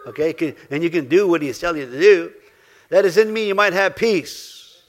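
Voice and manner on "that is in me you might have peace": very slow and louder, each word weighed; slow emphatic reading. Acted. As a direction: read the verse slowly, leaning into it.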